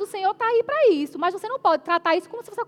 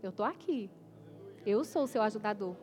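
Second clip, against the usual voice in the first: low, much softer, reassuring; a hushed divine reassurance; gentle inner voice of the Spirit; 8 semitones lower, 10 dB quieter than usual. Retold or imitated. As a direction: speak it softly as the Spirit answering. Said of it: "o Espírito Santo me disse".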